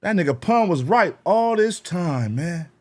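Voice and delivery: lightly voiced fans eating their words; mock fan admitting he was wrong. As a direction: play the fans conceding, hyped. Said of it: "And y'all be like".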